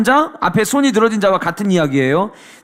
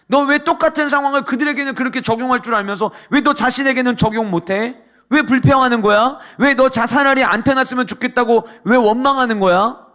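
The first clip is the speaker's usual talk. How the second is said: accusing rebuke; 4 semitones higher than usual. Acted. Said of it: "이렇게 이야기를 했어요".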